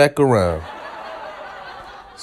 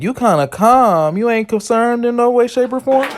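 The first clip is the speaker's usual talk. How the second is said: incredulous; 7 semitones higher than usual. Retold or imitated. Baffled at calm reply.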